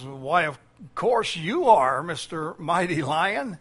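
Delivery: slow, meek little answer; timid bear. Acted. Bear timidly flattering the lion, slow and meek. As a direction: give in slowly like a cowed bear.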